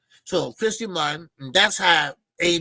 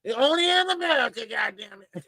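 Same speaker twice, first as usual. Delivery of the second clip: high, hammed-up exclamation; mock promoter outburst; Don King impression; 6 semitones higher than usual. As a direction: ham up the promoter's cry. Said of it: "So Don King said".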